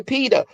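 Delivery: "Peter" said as pita, no r at the end; grandmother's pronunciation. Shown as a demonstration. Explaining how grandmother talks, "Peter" sounding like pita. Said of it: "That's what she say".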